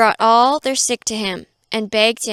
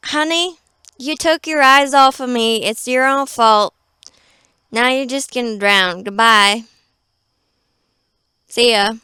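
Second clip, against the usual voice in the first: sassy dismissal; 3 dB louder than usual. Pretend. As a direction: pretend an uncaring Jesus waving goodbye. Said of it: "he was like".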